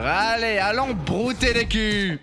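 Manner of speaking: rally the troops with gusto; rallying cry. Acted. Boss rallies team with battle cry. (cri de ralliement enthousiaste)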